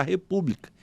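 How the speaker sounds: usual speaking voice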